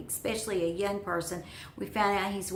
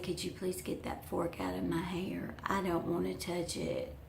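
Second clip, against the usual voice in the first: acted hushed, half-whispered plea; soft, discreet mock request; 6 dB quieter than usual. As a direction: ask it under your breath. Quietly asks girl to remove fork.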